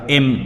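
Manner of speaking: एम said slowly as the letter name em; careful em for एम; pronunciation demo. Shown as a demonstration. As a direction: sound out एम clearly as em. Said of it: "ऐसे पढ़ा जाएगा".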